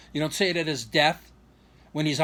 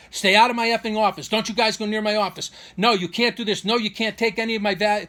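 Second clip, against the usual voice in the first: raised, higher retelling of an angry rebuke; angry mock outburst; 4 semitones higher, 3 dB louder than usual. Woman ordering visitors out of her office, angry mock outburst. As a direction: imitate someone shooing people off, riled up.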